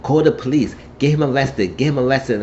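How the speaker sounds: mildly worked-up, acted agitation; agitated. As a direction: press it urgently as an upset patient. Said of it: "she was getting agitated".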